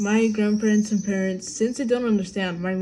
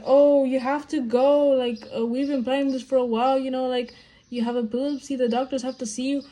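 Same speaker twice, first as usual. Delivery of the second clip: insistent family; 4 semitones higher than usual. Retold or imitated. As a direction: imitate family pushing her to go. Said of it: "They're like".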